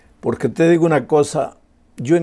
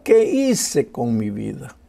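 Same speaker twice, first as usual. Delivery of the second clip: put-on softer, lower, slowed echo of the boy's despair; soft sad echo; 5 semitones lower than usual. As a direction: let the question fall quietly, lost. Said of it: "lloraba y se desesperaba".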